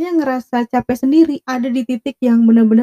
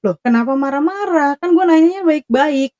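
retold bewildered protest; 4 semitones higher than usual. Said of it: "Terus gue bilang".

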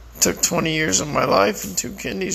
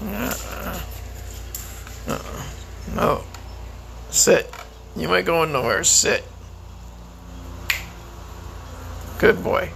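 commands to dog. Real, not acted. Man ordering his dog to sit and stay, firm command.

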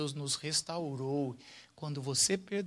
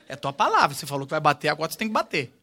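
egging on; 9 dB louder, much faster than usual. Retold or imitated. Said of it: "aí eu falo".

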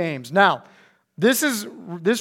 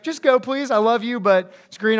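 polite plea; 5 semitones higher, 4 dB louder than usual. Retold or imitated. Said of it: "you know, just like".

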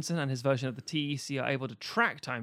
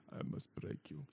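whispered robot voice; 10 semitones lower, 15 dB quieter than usual. Acted. Repeats the android line, whispered.

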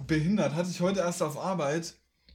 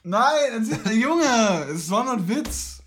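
exasperated shout; 3 semitones higher, 4 dB louder than usual. Real, not acted. Exasperated denial of joke.

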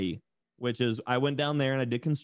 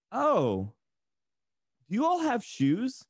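high-pitched, mock-incredulous asking; mock astonished question; 11 semitones higher, slower than usual. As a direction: imitate a puzzled stranger, pitched way up. Retold stranger's astonished question.

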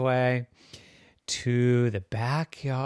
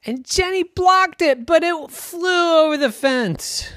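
dramatic narration; 6 dB louder than usual. A narrator's reading. Dramatic moment in story.

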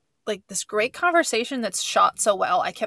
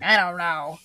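Hermione impression; 3 semitones lower than usual. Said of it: "She's such a Hermione about it".

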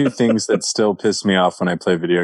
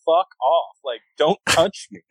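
mock angry comeback, higher; retelling the outburst with a raised, heated voice; angry retort; 6 semitones higher than usual. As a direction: gamer snapping back at a teammate, a retold angry rant. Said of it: "I was so angry".

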